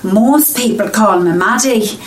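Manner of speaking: a dialect coach's shaky Scouse, slipping between regions; wandering Liverpool accent. Acted. Dialect coach showing off her Liverpool accent, drifting Scouse. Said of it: "I'm from Liverpool".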